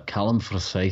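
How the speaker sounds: light, amateurish Scottish accent; Scottish accent attempt. Shown as a demonstration. Co-host trying a name on request, in an attempted Scottish accent. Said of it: "say Callum Forsyth in a Scottish accent".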